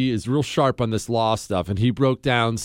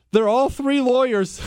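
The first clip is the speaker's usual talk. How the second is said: higher, breaking into laughter; laughing punchline; 9 semitones higher than usual. Real, not acted. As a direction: crack up as you land the punchline. Host cracks up at own punchline.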